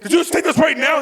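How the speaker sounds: high, disbelieving question; can't believe it; stunned question. Retold or imitated. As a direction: speaker questioning the cousin, stunned. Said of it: "I go".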